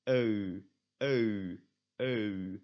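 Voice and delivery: "eu" drawn from e into u; Dutch EU diphthong. Shown as a demonstration. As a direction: repeat "eu" as a gliding demo. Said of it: "you start at".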